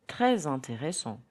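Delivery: "Très intéressant" linked with a z sound; teacher's model of the z liaison in "Très intéressant"; French liaison. Shown as a demonstration. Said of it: "try to hear the liaison".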